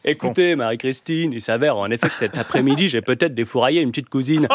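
mock Versailles accent, hot potato in the mouth. Husband confessing to his wife, mock Versailles accent. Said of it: "avec leurs patates chaudes de consanguin dans la bouche".

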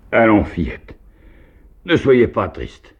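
exclamation très aiguë et plus forte, lente; s'écrie. A narrator's reading. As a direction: lance gaiement aux fillettes. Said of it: "il s'écria". (s'écrie, voix haute et lente)

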